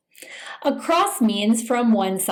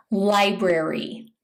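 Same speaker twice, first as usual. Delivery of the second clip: whisper; 2 semitones lower than usual. Shown as a demonstration. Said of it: "whispered repeat of the word".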